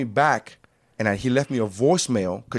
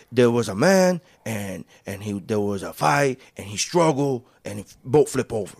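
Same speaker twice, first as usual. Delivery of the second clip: put-on halting, unsure try at a Cuban accent; attempted Cuban accent; 2 semitones lower than usual. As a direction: fumble through audition lines in a shaky Cuban accent. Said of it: "I'm trying to remember what you did".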